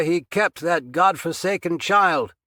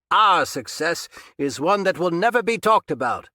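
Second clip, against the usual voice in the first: loud, higher, calm speech across the room; calling from afar; 7 semitones higher, 5 dB louder than usual. A narrator's reading. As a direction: lecture him loudly from across the basement. Captor speaking from far off.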